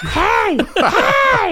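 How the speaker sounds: loud, high-pitched yelled hey; screaming at a driver. Acted. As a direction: yell it out in alarm, half laughing. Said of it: "I just start screaming".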